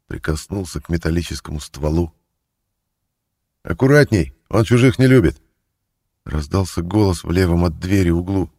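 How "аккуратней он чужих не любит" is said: higher, louder rough warning; thief's warning. A narrator's reading. Thief warning Mozgolevsky from the corner, louder. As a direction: call out a gruff caution.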